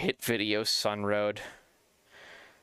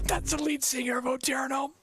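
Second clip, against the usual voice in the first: much higher, insistent retelling; excited repeat; 11 semitones higher than usual. Retold or imitated. Repeating to his friend who the singer is, excitedly. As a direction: press the point on her, high and eager.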